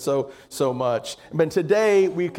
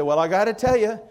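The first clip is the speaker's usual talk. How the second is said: laughing punchline; 3 semitones higher than usual. Acted.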